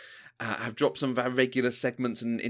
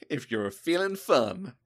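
imitating American accent; slower than usual. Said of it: "That was brilliant".

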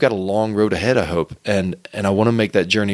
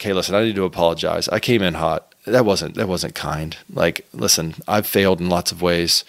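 gentle apology; 4 semitones lower than usual. Retold or imitated. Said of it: "come in and say".

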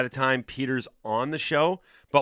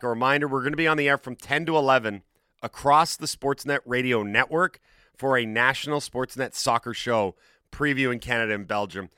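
breathless after a long rundown; out of breath. Real, not acted. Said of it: "Okay, I'm almost out of breath".

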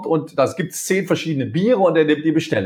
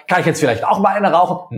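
demanding tone; 3 semitones higher than usual. Shown as a demonstration. Employee bluntly asking the boss, demanding tone. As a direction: ask it as if you are owed a break. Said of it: "sondern wie ich es gesagt habe".

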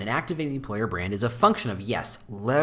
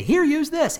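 mock offhand handoff; 6 dB louder than usual. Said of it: "Give it to 'em and say".

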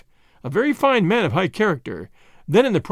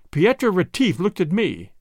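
ordinary delivery, nothing marked

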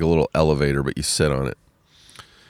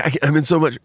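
pained cry; 11 semitones higher, much faster than usual. Retold or imitated. Mom in pain with doctor.

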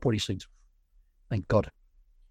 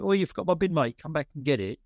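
mock shout; 6 semitones higher than usual. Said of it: "if I start shouting out".

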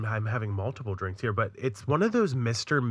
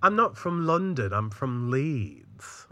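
imitating a proud Leeds native; a pop singer; slower than usual. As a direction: stretch out Leeds in mock northern English. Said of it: "She was like".

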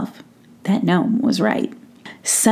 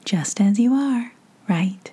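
tender whisper; slower than usual. Real, not acted. Tender goodbye to child listeners.

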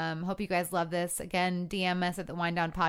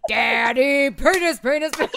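imitating a toddler; 5 semitones higher, 9 dB louder than usual. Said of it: "he goes".

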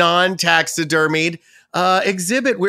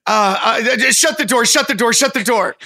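panicked; 3 semitones higher than usual. Acted. Panicked call to shut door.

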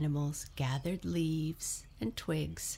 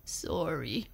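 miserable sniff. Acted. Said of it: "sniffed Elephant miserably".

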